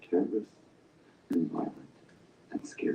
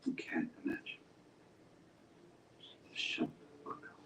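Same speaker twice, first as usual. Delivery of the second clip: menacing whisper; 10 dB quieter than usual. Acted. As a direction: whisper the threat right in his ear. Interrogator threatens in low voice.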